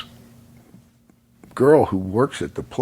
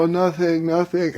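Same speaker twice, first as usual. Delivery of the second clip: mock flustered denial; 7 semitones higher than usual. Retold flustered denial to girlfriend.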